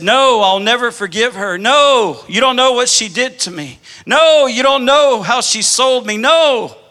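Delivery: mock the woman's anguished shout, not full force; retold screaming refusal. Preacher retelling the bound woman's cry to his dad, imitated anguished shout. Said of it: "she starts just screaming out".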